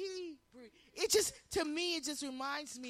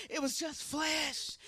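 louder; slower than usual. Shown as a demonstration.

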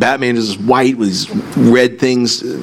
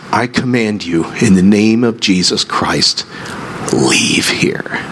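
firm command; slower than usual. Retold or imitated. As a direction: command it firmly without shouting, finishing hushed. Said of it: "the firmness in Al's voice".

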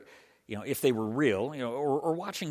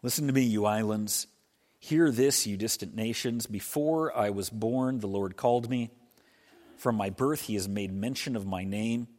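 scripture reading. Acted. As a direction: proclaim the prophet's words from the pulpit. Reads Isaiah 49 aloud.

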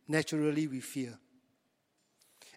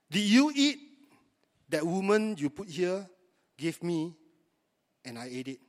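mocking Adam's excuse. Mocking Adam's weak confession.

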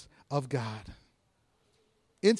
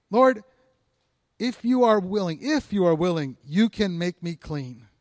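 louder, urgent begging; desperate plea; 3 dB louder than usual. Retold or imitated. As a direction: plead with rising urgency. Leper pleading, repeated.

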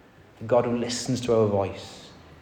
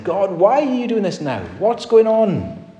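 psalmist crying why; 10 semitones higher, 3 dB louder than usual. Acted. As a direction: ask God why like the psalmist in anguish. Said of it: "the psalmist is saying".

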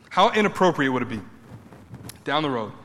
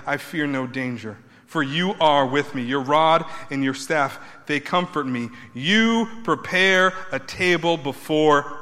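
scripture reading. Acted. Preacher reading Psalm twenty-three to his congregation, reverent.

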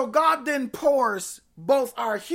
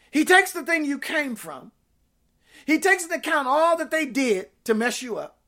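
insistent preaching; 4 semitones higher, faster than usual. Real, not acted.

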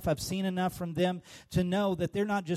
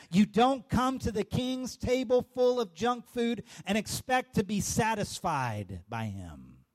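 good preaching; 2 semitones higher, slower than usual. Acted. Pastor driving home the sermon's point, slowed and emphatic. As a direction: land the point, then let it sink. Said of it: "Ooh, that's good preaching right there".

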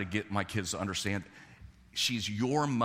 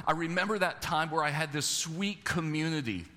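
wistful psalmist; 6 semitones higher than usual. Retold or imitated. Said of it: "And what does he remember?".

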